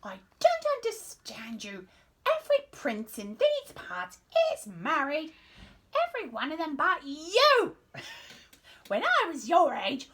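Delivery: put-on high, loud scolding old queen; grumpy queen voice. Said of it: "She's a grumpy queen".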